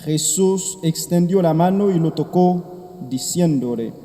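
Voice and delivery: soft, measured liturgical reading; Gospel reading. Acted. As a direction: proclaim the Gospel gently at Mass. Priest proclaims the Gospel.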